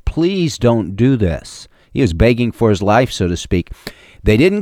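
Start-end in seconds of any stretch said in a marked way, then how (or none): 0.1-1.7 slow, drawn-out mild plea; retold pleading. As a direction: stretch the words in a gently acted plea. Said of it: "Joseph was pleading with his brothers".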